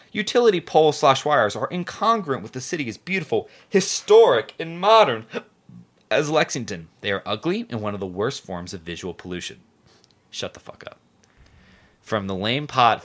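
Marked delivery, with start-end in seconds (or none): 0.1-9.6 reading a letter. Acted. 10.3-11.0 breathy whispered retort. Real, not acted. Mock reaction to the letter.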